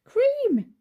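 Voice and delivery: shouting bitterly at the sticky bear; bitter outburst. A narrator's reading. Taxi driver shouting bitterly at the bear, loud and high. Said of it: "he said bitterly".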